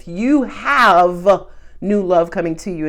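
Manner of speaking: slow, deliberate, every word weighed; slow emphasis. Real, not acted. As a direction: lean into each word slowly. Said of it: "emphasize that last message that way".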